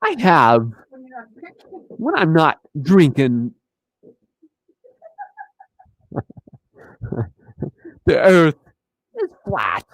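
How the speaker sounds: halting impression, long pauses mid-sentence; Christopher Walken. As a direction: deliver it in odd, broken-up chunks. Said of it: "horrible Christopher Walken impression".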